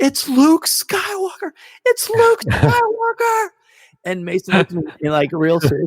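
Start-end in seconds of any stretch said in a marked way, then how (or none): 0.0-3.5 very high, slow, drawn-out, rising scream. Retelling the moment Luke appeared: imitating own screaming. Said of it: "and I screamed".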